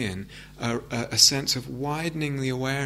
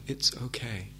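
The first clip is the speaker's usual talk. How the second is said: softly, as if to yourself, a gentle reassurance; quiet; 6 dB quieter than usual. Shown as a demonstration. Teacher showing the class soft self-talk, quiet and gentle. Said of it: "repeating to yourself quietly".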